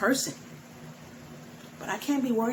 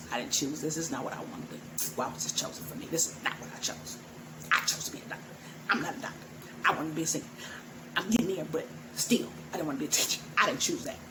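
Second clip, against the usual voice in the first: retold lament; 2 semitones lower, 4 dB quieter, faster than usual. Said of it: "That's what I would always say".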